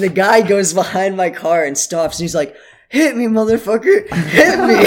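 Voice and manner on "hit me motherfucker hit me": higher, raised-voice imitation of a goading driver; angry dare. Driver behind his car daring him, mock angry challenge. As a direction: goad him, voice pitched up, as a retold challenge.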